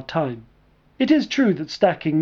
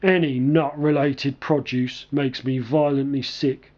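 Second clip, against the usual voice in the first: low, unhurried big man voice; slow and low, a lightly voiced gentle giant; deep slow voice; 4 semitones lower than usual. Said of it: "he began in a deep, slow voice".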